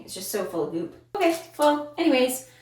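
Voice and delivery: ordinary talk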